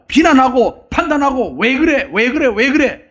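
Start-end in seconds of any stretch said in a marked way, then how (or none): 1.6-3.0 higher-pitched, repeated reproach; judgmental nagging. Acted. Self-appointed judge criticizing other people, reproachful. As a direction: act out a fault-finder needling someone. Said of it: "심판자가 아니고 다른 사람 비판하고".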